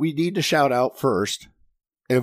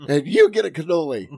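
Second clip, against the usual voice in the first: Oprah giveaway voice; 5 semitones higher than usual. Retold or imitated. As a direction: hand out prizes like a talk show host. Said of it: "my voice crack again".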